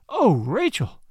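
impassioned outburst; bursting out. Acted. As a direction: blurt her name out in fervor. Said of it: "I burst out".

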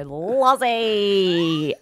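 calling the name out, drawn long; a bright staring hello from the colleague; colleague's greeting. Retold or imitated. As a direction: Lozzie stretched out as a long greeting. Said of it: "You'd go up and she'd go".

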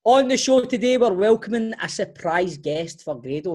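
mock-formal podcast intro; host intro. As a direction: present the show like a host.

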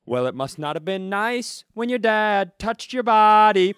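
high, slow mocking bro; cholo voice. Fan mocking the tattooed guy, slow high bro. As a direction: drawl it as a cruel taunt. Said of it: "can I do my line".

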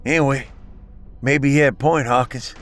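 slurred from a blow to the face; slurring. Acted. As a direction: slur the words, hurt and winded. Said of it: "slurring his words from a hit on the face".

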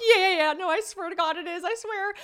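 squeaky, laughing insistence; high-pitched protest. Retold or imitated. Woman insists to doubtful friend, squeaky protest. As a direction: plead your case in a high squeal.

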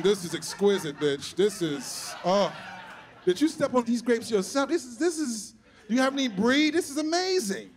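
savoring sommelier, rising delight; wine connoisseur. Acted. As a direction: relish it like a rare vintage. Acts tasting like fine wine.

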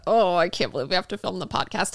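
a reluctant, put-upon complaint; mock dread. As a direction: act out dreading a chore. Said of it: "it became like a".

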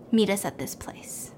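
hushed whispered demand. Retold or imitated. Blackmailers tell the couple where to meet, whispered. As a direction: whisper it like a threat.

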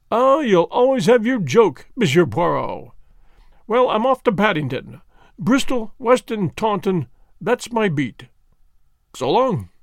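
put-on friendly, teasing police inspector greeting an old rival; a hint of a bluff English detective; inspector Japp voice. Japp speaks in dialogue.

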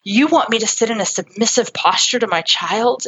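mildly affronted, retold objection; retold anger. Dad objecting to therapist's advice, mildly mad. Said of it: "the dad got mad".

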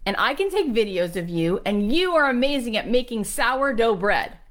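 acted enthusiastic urging; eager pitch. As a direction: play a daughter talking up her mother. Daughter urging her mother, retold.

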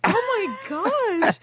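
high, drawn-out mock shock; shocked gasping reaction. Retelling reaction to a crude line, mock shock. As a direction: draw it out high, scandalized.

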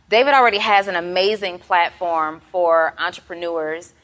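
gum in the mouth while talking; chewing gum. Real, not acted. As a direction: talk around the gum. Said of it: "I have gum in my mouth".

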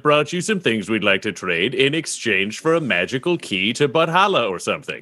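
slow, lightly drawled character voice; adventurer Butthole. Acted. Adventurer flattering a shopkeeper, slightly drawn-out character voice. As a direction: draw the words out a little, as a character.

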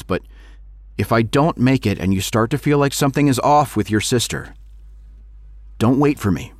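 a father pleading over the phone; worried father. Acted. Father voiced in story.

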